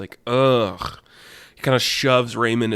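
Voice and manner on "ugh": exasperated "ugh"; throaty grunt of disgust; annoyed groan. Acted. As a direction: grunt in irritation. Grumpy character shoves minion aside.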